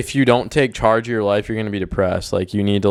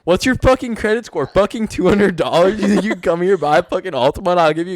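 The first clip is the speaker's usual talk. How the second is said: higher-pitched scoffing tirade; mock angry salesman; 3 semitones higher than usual. Car salesman scorning a customer's credit, mock angry. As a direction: berate the customer in playful mock outrage.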